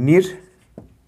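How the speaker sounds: slow, stretched নির্মূল; slow syllables. Shown as a demonstration. Teacher to pupils, slowly sounding out নির্মূল. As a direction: draw নির্মূল out. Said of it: "এটা দেখো নির্মূল".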